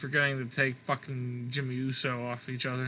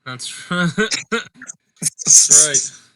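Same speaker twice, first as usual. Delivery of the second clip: catchphrase yell; 2 semitones higher, 12 dB louder, much slower than usual. Pretend. Co-host yelling a wrestler's catchphrase at his friend. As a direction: belt out the catchphrase, loud.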